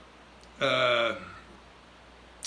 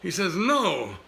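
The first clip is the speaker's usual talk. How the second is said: brash puppet voice, higher and louder; Dodney; 4 semitones higher, 4 dB louder than usual. Acted. Dummy boasting to host, brash puppet voice. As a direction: crow that you're a hero. Ventriloquist dummy telling joke.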